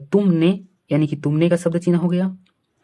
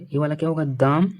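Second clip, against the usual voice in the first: whisper. Real, not acted. Teacher muttering while reading outline.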